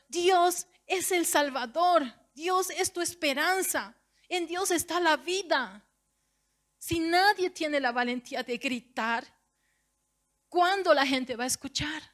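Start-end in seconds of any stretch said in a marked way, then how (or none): 0.1-5.8 high, slow proclaimed cry; shouting praise. Shown as a demonstration. Preacher demonstrating shouting praise to the congregation. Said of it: "gritando y diciendo".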